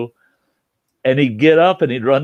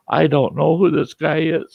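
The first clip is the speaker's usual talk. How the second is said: mock tearful, higher whine; hammed-up weepy denial; fake tears; 6 semitones higher than usual. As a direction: play the innocent victim with put-on tears. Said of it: "Fake tears, fake tears all of a sudden".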